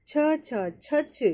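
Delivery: ছছ slowly, the first ছ half and the second full; doubled letter demo. Shown as a demonstration. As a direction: drill ছছ slowly for students. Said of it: "প্রথমটা half কা আছে". (ছছ ধীরে, প্রথমটা half)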